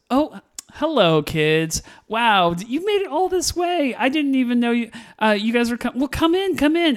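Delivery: high, airy mock-welcome to the grandkids; imitated grandma greeting. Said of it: "and she goes".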